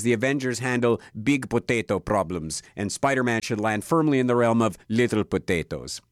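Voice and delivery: lightly put-on Russian accent, badly faked; a hint of a Russian accent, self-mocking; bad Yelena accent. Film reviewer quoting Yelena in a bad Russian accent. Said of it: "my really bad Yelena accent".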